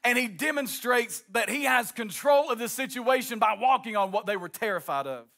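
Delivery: rising, driving sermon cadence; preaching at full force. Acted. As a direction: preach it out over the organ. Preaching with music underneath.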